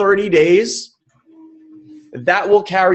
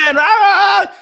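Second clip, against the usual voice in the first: high mock scream; 4 dB louder than usual. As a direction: let out a shrieking "Ah" to drown out the other voice. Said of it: "meanwhile, this is screaming".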